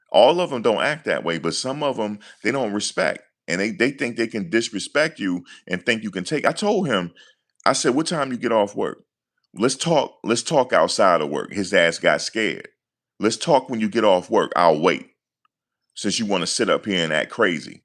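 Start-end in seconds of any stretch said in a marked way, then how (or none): none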